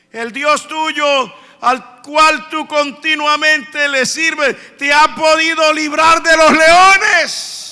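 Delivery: mournful plea. Retold or imitated. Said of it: "con una voz muy triste".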